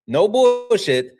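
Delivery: slow and high, stretch "bullshit" out; drawn-out emphasis. Real, not acted. Repeating it to chat, slow and stretched. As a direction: lean on every syllable of "bullshit", slowly.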